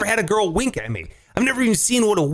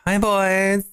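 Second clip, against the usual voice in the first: breathy flirty greeting. Shown as a demonstration. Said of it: "repeating the greeting".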